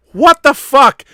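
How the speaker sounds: retold shout. Retold shock at phone call.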